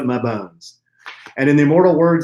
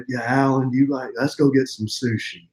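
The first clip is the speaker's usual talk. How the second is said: Texas drawl. Pretend. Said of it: "Sean's from Texas, so he talks in that Texas drawl".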